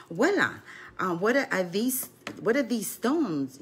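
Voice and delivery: a hint of a five-year-old asking; curious grandson. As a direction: imitate a child puzzling over something new. Grandson questions grandmother about stones.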